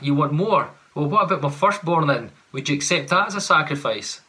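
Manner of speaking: mock bargaining, mildly exasperated; sarcastic Israel. Preacher voicing Israel bargaining with God, lightly sarcastic. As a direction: haggle with God like a put-upon customer. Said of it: "hear the sarcasm in Israel's response".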